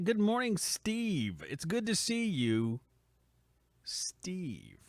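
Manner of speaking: drawn-out, weighty greeting, the last name hushed; really slow, significant. Real, not acted. Host greeting a favored guest in chat, slow and significant. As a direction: linger on the name, then let it drop to a breath. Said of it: "I like just to say that really slowly".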